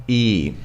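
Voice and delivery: "E" as a tense, prolonged ee; "E" sustained as eee; tense long E. Shown as a demonstration. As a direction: hold "E" tight, like a Russian ee. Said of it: "kind of a more tense Russian E".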